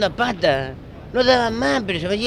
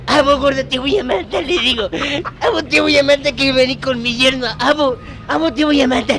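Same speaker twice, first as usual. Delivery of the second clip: higher, half-shouted threats at the son-in-law; raised-pitch mock threat at the fat man; mock furious threat; 6 semitones higher than usual. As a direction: play the jealous husband going off.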